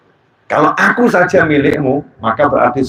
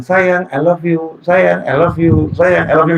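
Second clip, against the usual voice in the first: slow, higher, syrupy mock romance; drawn-out mock lovey-dovey voice; mock soap-opera lover; 3 semitones higher, slower than usual. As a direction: ham up a soap-opera sweet talk, slowly. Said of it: "seperti romantisme sinetron".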